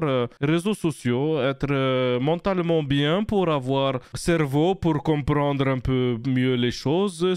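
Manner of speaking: lightly put-on Russian accent, mostly his own voice; a mild Russian accent done on a dare; accent russe léger, pour un défi. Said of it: "Bien l'accent russe".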